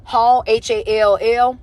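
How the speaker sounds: slow, spaced-out web address; slow spelling-out. Real, not acted. Host gives viewers the coaching website, slowly spelled out.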